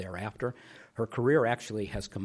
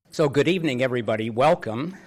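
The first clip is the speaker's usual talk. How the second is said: podium greeting; 4 semitones higher, 10 dB louder than usual. Real, not acted. Host greets the audience.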